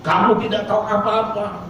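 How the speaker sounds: high, slow mock scream of contempt; angry woman shouting down the old man, high hammed-up yell. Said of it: "Dan berteriak".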